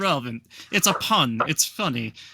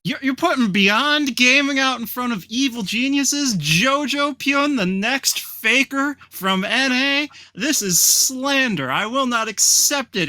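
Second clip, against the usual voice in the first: mock outrage; 5 semitones higher than usual. Real, not acted.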